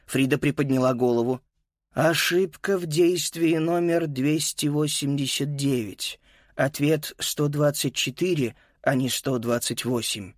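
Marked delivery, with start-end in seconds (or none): 1.9-10.3 lightly voiced metallic robot. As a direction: read it out like a robot. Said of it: "металлическим голосом робота".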